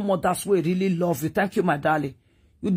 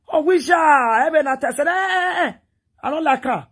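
exclaimed retelling; 7 semitones higher, 4 dB louder than usual. Retold or imitated. An Edo mother retelling her shock about the guy, exclaimed higher and louder. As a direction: cry out eh eh much higher, half laughing in disbelief.

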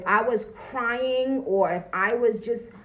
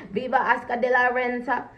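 amused mock cheer; 3 semitones higher than usual. Continues mock Spanish cheer, laughing.

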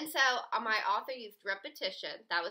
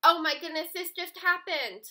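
gasp, then loud and higher; dramatic surprise; 5 semitones higher, 6 dB louder than usual. Shown as a demonstration. Teacher showing students how an ellipsis feels, surprised and loud. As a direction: sell the shock of the moment. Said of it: "you wanna show".

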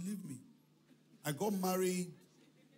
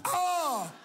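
mock regret; 3 semitones higher, 6 dB louder, much slower than usual. Mimicking regretful husband.

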